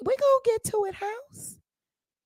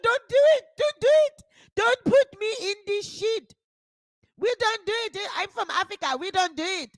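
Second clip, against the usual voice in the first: husband's plea; 5 semitones higher, faster than usual. Retold or imitated. Voicing African husband.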